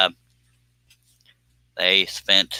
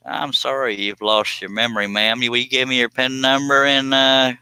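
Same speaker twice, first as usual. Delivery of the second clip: lightly hammed-up sweet-talk, rising higher; mock solicitous scammer; 4 semitones higher than usual. Streamer jokingly conning a forgetful old lady, mock solicitous.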